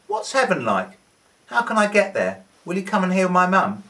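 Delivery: high, loud eager calls from the crowd; eager crowd questions. A narrator's reading. Crowd calling questions to Jesus, high and eager. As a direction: call out to Jesus, pressing and hopeful.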